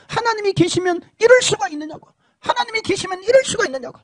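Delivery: high, protesting cry at God; accusing God. Retold or imitated. Damned man accusing God, high and protesting. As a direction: shake a fist at heaven. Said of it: "삿대질을 하면서".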